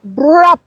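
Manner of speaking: "brap" punched out loud and high; abrupt brap. Shown as a demonstration. Guest shows the word's suddenness, loud "brap". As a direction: bark "brap" like hitting the brakes. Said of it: "there's a suddenness to that word".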